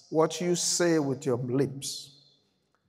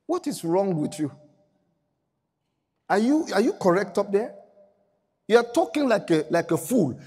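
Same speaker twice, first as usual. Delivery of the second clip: put-on Job's old-style speech; 3 semitones higher than usual. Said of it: "you speak like this".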